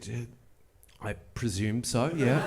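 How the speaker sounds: very soft, hesitant, guilty; sheepish admission. Retold or imitated. Admitting to the neighbour it's her husband's robe, soft and sheepish. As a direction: mumble it out, embarrassed.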